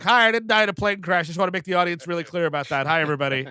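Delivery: lightly acted eager bystander calling out; a hint of an overeager forgotten actor; cut actor in back. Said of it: "Cliff DeYoung's in the back like".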